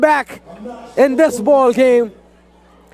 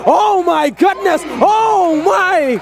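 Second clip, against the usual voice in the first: higher, shouted oh my; excited exclamation; 4 semitones higher, slower than usual. Real, not acted. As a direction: burst out in disbelief at the play. Reacts to a big play.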